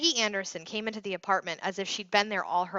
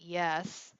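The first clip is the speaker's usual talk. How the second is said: sulky murmur; 5 dB quieter than usual. Acted. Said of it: "Andy murmured a sulky".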